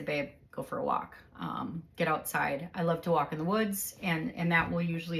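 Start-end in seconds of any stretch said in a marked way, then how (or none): 0.0-2.7 calm. Retold or imitated. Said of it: "just speak real calm and say".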